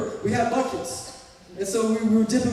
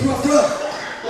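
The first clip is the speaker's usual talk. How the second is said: dog noise; 4 semitones higher, 5 dB louder than usual. Shown as a demonstration. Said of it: "It goes".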